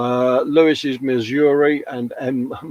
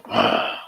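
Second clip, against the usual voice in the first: dragon breath. Pretend. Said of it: "That was my impression of a dragon".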